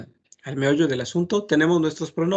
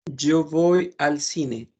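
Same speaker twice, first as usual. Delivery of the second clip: slow example; much slower than usual. Shown as a demonstration. Teacher slowing for example.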